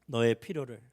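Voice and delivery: low, hushed blessing fading to a whisper on 아신다; soft declaration. Shown as a demonstration. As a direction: tell your neighbor quietly, ending in a whisper. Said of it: "옆에 있는 분들에게 이렇게 선포합시다".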